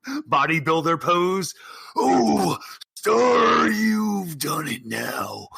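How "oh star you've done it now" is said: menacing wrestler promo; slow threatening champion; barbarian. Acted.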